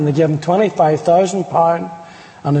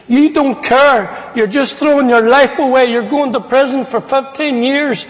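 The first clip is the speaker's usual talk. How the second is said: mild mock shout, pitched high; a mother's high, reproachful outburst; retold upset shouting; 5 semitones higher than usual. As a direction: scold in a raised, high-pitched voice, lightly imitated. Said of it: "That's the way she was shouting".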